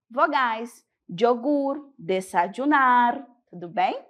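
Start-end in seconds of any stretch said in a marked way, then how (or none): 1.1-3.3 "Yogur" and "desayunar" with Y as a J sound; "desayunar" said like "dessadjunar", likewise "Yogur"; Y as consonant. Shown as a demonstration. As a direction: make the Y in "Yogur", "desayunar" a hard J. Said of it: "o sonido de consoante".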